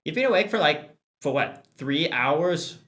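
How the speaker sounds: high, disbelieving question; can't believe it; incredulous. Real, not acted. Incredulous at three hours.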